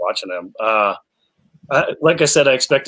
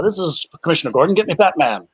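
higher, quick gruff cop voice; a hammed-up film commissioner on the phone; Commissioner Gordon impression; 6 semitones higher than usual. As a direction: bark the line like an old police chief. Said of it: "He's like, he goes".

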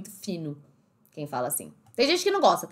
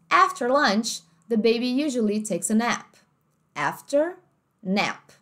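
American accent; slower than usual. Shown as a demonstration. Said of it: "em inglês americano ficaria assim".

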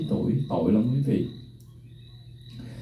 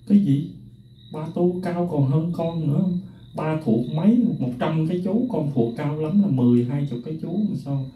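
incredulous retort; 5 semitones higher than usual. Retold or imitated. Son protesting to his dying father, higher incredulous protest. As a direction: challenge him in disbelief. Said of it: "Thầy mới nói với ba thầy".

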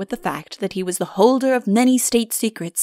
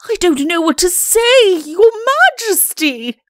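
high, loud wail of dismay; overwrought, lamenting Chancellor; distraught; 10 semitones higher, 6 dB louder, slower than usual. Acted. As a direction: wail helplessly, pitch soaring. Shocked Chancellor wails at disfigured king.

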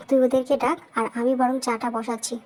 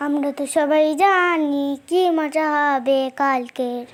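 louder, slow, eager; excited child; 4 dB louder, slower than usual. Acted. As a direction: savour the fun ahead. Child excited about birthday. (খুশিতে উচ্ছ্বসিত হয়ে)

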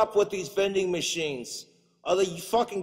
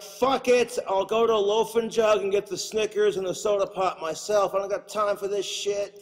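fed-up outburst; 4 semitones higher than usual. Retold or imitated. Customer giving up on vending machines, fed-up outburst. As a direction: give up on the machines, exasperated. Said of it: "you're just like".

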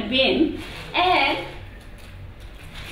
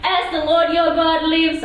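higher, louder, curt "As the Lord your God lives"; impolite retort; 5 semitones higher, 4 dB louder than usual. Pretend. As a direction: throw the oath back at him, not politely. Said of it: "not sure if she says in a polite way or she's like".

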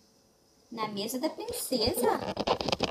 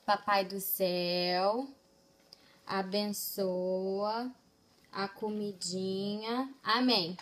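slow gentle prayer; 4 semitones lower, slower than usual. Shown as a demonstration. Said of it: "Faz uma oração pra comidinha".

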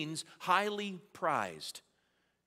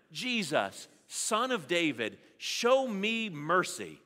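louder, with a slow, drawn-out show me mercy; louder once more; 2 semitones higher, 4 dB louder, slower than usual. Shown as a demonstration. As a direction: cry it out slowly with the congregation. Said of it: "One more time".

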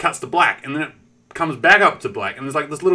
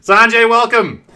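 louder and higher, slow; excited welcome; 8 semitones higher, 9 dB louder, slower than usual. Real, not acted. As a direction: greet a friend joining the stream. Greeting a raider on stream.

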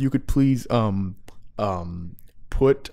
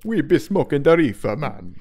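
mock Jamaican accent. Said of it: "do a Jamaican accent for us".

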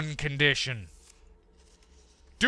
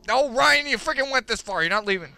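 stern self-scolding; 5 semitones higher, faster than usual. Real, not acted. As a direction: snap at yourself to keep going. Scolding himself to keep going.

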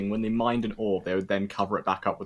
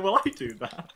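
imitating friend; 10 semitones higher than usual. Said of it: "And you're like".

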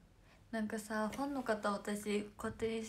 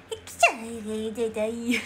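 imitating Momoka's sneeze; 10 dB louder than usual. Idol mimics her friend Momoka's sneeze for fans, loud squeaky burst. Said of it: "ももかのくしゃみの真似は".

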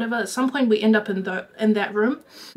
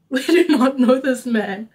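amused retold protest; 2 semitones higher, 4 dB louder than usual. Laughs while retelling her plea.

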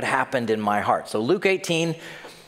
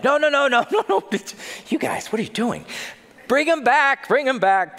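urgent calling back; 12 semitones higher than usual. Retold or imitated. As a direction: call the children back in a rush. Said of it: "I could just see him like".

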